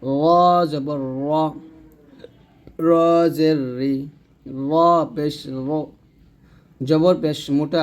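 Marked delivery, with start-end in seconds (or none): 0.0-1.3 slow, full "ro" for র; held, thickened র; thick, heavy ra. Shown as a demonstration. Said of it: "জবর এবং পেশ দিয়ে উচ্চারণ করলে মোটা হবে". 2.9-3.9 রি light after a held র; rolled, unrounded রি; thin ri. Shown as a demonstration. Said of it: "জের দিয়ে করলে পাতলা হবে". 4.7-5.7 final র rounded and full; thickened র; thick, heavy ru. Shown as a demonstration. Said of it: "জবর এবং পেশ দিয়ে উচ্চারণ করলে মোটা হবে".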